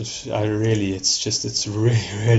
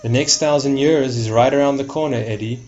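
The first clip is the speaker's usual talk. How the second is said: Al Pacino; 3 semitones higher, 3 dB louder than usual. Acted. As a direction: put on a half-hearted film-star accent. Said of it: "let me leave the accent behind".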